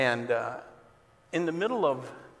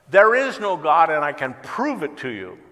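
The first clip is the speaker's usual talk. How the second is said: defiant shout from a soapbox, much higher and louder; 5 semitones higher, 12 dB louder than usual. Retold or imitated. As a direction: hurl it at the crowd like a challenge. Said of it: "and he shouted".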